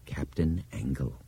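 a quiet, self-satisfied agreement; pleased and complacent. A narrator's reading. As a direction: say it like a professor writing QED. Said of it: "pleased but complacent tone of a geometry professor".

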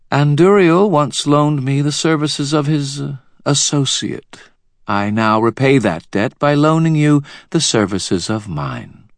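high, imperious queen voice; cold queen Mab. A narrator's reading. Queen to the wizard, haughty and high. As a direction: speak down to them as a queen.

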